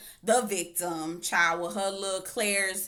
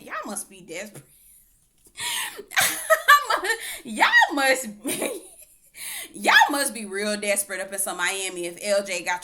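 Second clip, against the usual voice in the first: laughing; 6 dB louder than usual. Real, not acted. Mocking the women swooning over LJ, laughing. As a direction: laugh through it in disbelief. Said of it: "laughing at LJ".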